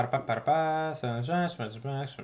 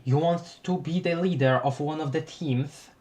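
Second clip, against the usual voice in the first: steady, corrected character voice. Acted. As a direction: redo the line in the right voice. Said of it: "I messed up the frickin' voices".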